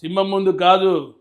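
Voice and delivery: slow, measured hero line, lightly voiced; a hint of a lion's swagger, slowly; understated Balayya style, slow; Balayya dialogue. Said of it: "ఆ dialogue".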